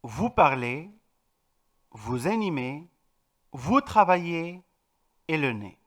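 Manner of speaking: Vous parlez with a silent final z, ending on é; teacher modelling French verb endings; French pronunciation demo. Shown as a demonstration. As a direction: read the French examples carefully. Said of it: "tenemos cuatro ejemplos".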